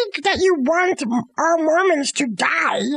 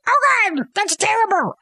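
shocked cry; 4 semitones higher than usual. Retold or imitated. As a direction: gasp it out like the townsfolk just saw a skeleton. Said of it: "And they're like".

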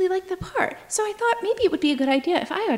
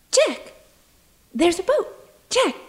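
tragic heroine sorrow; 6 semitones higher, 3 dB louder than usual. Acted. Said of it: "Let me get into character".

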